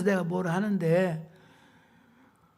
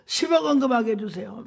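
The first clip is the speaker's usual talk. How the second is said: rising tearful plea; 3 semitones higher than usual. Retold or imitated. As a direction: beg harder, voice climbing on 십억. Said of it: "눈물이 나오면서 막". (십억에 힘주며 울먹이듯 애원)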